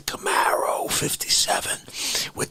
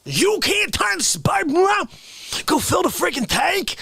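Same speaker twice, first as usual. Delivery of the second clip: incredulous; 9 semitones higher than usual. Acted. Incredulous outburst.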